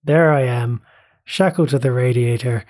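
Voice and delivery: lightly put-on, half-hearted Irish accent; a bad mock Irish brogue, quoting the show; terrible Irish accent. Podcast host quoting a Derry Girls scene in a mock Irish accent. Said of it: "that was a terrible accent, terrible Irish accent".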